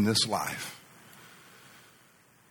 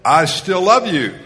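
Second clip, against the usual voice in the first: slow, louder, tender declaration; God's tender voice; 4 semitones higher, 6 dB louder, slower than usual. Retold or imitated. God answering the despairing preacher, slow and tender. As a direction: let each word land slowly with love. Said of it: "when you hear God whisper".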